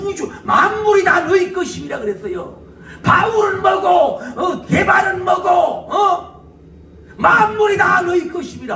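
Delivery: high, loud shouting proclamation; full-force preaching. Real, not acted. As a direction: proclaim it at the top of your voice. 설교의 절정, 힘차게 외침. (목청껏 외치는 설교)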